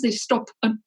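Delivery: speech broken by hiccups; hiccuping. Real, not acted. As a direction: hiccups interrupting the words. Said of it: "excuse me, I've got hiccups".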